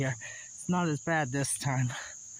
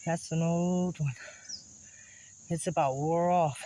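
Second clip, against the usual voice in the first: out of breath. Real, not acted. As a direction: still catching breath. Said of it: "I'm out of breath".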